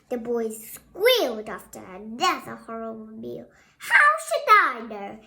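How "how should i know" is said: loud grumpy retort; loud irritated husband; grunted. Acted. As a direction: snap it back grumpily. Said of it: "Mister Piggot grunted".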